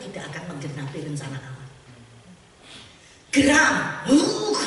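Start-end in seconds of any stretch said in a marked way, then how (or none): 3.3-4.6 mock growl of anger. Shown as a demonstration. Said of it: "gitu, gitu ya".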